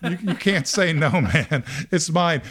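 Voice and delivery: high, loud, outraged no-backsies protest; indignant protest. Retold or imitated. Runner-up insists to host she won, loud indignant. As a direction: plead hard to keep the crown. Beauty queen refusing to give crown.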